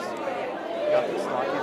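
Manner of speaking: slow whispered encouragement. Real, not acted. Coach whispering encouragement to a nervous volunteer. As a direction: breathe it softly into her ear.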